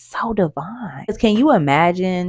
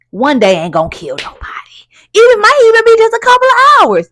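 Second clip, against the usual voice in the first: whispering; 6 dB louder than usual. Pretend. Whispering to her tired self to stay home. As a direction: whisper it like a secret you're allowed. Soothing self, skipping work.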